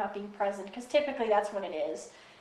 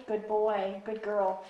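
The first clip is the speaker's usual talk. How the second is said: calm praise; much slower than usual. Shown as a demonstration. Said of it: "just very calmly".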